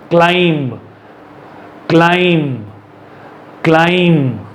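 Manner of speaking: क्लाइंब said as klime, ending on M; silent B. Shown as a demonstration. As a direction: model क्लाइंब slowly with no B released. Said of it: "हमारे मुंह से क्या आना चाहिए". (क्लाइंब में ब silent, म पर खत्म)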